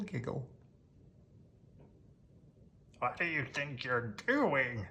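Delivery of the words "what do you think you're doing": cried. Acted. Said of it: "cried Grouch".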